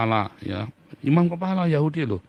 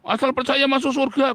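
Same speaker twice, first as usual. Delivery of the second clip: mocking naive believer; 13 semitones higher than usual. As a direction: parody the people who say just believing saves. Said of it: "Banyak orang bilang".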